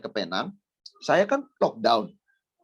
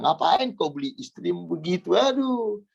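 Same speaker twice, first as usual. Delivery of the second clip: higher-pitched exasperated complaint; mock inner protest; 6 semitones higher, slower than usual. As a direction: act out the flesh protesting, rising into a wail. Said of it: "batin saya menjerit". (protes batin yang dilebih-lebihkan)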